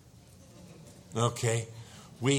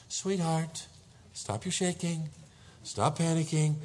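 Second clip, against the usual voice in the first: calm wife, pitched a little higher; relative calm; 4 semitones higher, slower than usual. Retold or imitated. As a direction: soothe a panicking husband, imitating his wife. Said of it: "with relative calmness".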